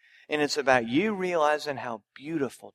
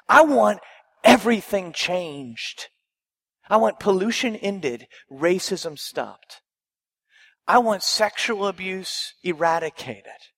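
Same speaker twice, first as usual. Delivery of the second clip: louder, ringing declaration; loud proclamation; 6 dB louder than usual. Acted. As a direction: proclaim it with full force. Jesus declares his mission.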